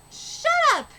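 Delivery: high, loud yell to cut him off; sharp furious outburst; angry shout. Acted. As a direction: bark it to shut him up. Character snaps in a fight.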